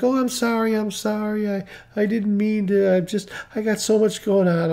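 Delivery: imitated flustered apology. Crying customer apologizing to her driver, mildly flustered imitation.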